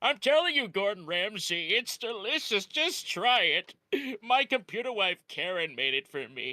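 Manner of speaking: full cartoon character voice. Answering Gordon Ramsay in a comedy bit, Plankton voice. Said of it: "I can do a really good plankton".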